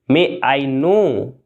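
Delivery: slow, careful question; slow and clear. Shown as a demonstration. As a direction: model it slowly for learners. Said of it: "क्या मैं जान सकता हूँ?". (धीरे और साफ़)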